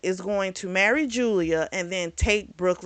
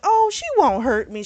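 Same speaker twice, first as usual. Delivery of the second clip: high airy mock ditz; mock ditzy voice; 8 semitones higher than usual. Viewer mocking a naive character, high ditzy imitation. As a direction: mimic a clueless girl, pitched way up. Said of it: "she'd be like".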